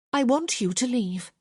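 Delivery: put-on young lady ordering him out; cold dismissal. A narrator's reading. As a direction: send him away with nerves hidden.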